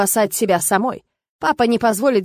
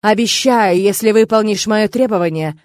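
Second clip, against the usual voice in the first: human voice; 6 dB louder than usual. Acted. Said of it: "вполне человеческим голосом произнёс Серж".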